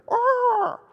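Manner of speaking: shrill, high cawing crow cry; sudden high crow screech. Retold or imitated. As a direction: squawk like a menacing movie crow. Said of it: "The crow".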